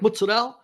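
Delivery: "Mozzarella" as "moots-a-dell", last vowel dropped; Italian-American pronunciation. Retold or imitated. Correcting a restaurant server, "Mozzarella" said Italian-American as "mootsadell". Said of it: "someone says mozzarella cheese, I'm like".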